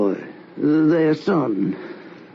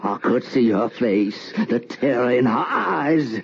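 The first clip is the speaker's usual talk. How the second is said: ordinary talk, nothing marked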